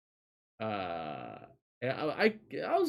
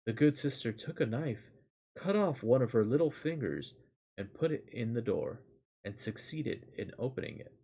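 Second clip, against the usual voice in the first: calm, even storytelling read; measured fairy tale read-aloud voice; story narration. A narrator's reading.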